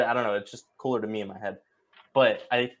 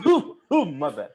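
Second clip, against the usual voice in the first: mock apology; 5 semitones higher, 10 dB louder than usual.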